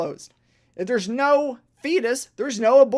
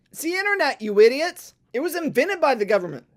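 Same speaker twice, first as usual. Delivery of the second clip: angry outburst; 4 semitones higher, 4 dB louder than usual. Real, not acted. Ranting at people against government internet, angry outburst. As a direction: pitch jumps high, then louder on the insult. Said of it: "I started to get angry".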